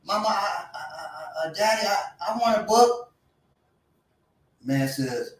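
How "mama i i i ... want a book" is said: put-on whiny child voice. Boy begging parent for book.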